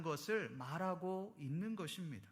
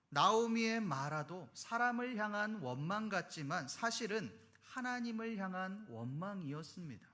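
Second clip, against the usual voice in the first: usual speaking voice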